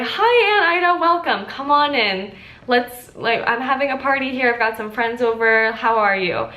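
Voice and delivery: a cheery hostess welcoming an unwelcome aunt; heartfelt welcome. Pretend. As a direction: throw the door open and greet her gladly. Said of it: "truly, from the bottom of your heart".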